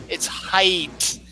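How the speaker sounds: "height" closed with a T; standard height. Shown as a demonstration. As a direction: correct it to HEIGHT with final T. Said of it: "No, I've never heard that".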